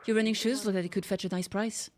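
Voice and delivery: lightly voiced noble knight in archaic speech; a hint of a chivalrous Spanish hero; old-fashioned knight. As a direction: play the gallant old-world knight. Don Quixote archaic voice.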